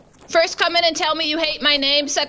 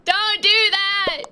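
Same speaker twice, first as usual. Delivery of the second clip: higher, slow hammed-up plea; mock pleading cry; 4 semitones higher, slower than usual. Repeats plea louder.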